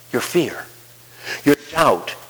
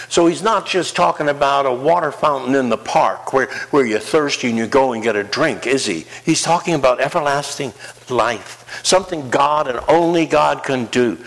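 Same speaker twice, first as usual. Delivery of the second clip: ordinary delivery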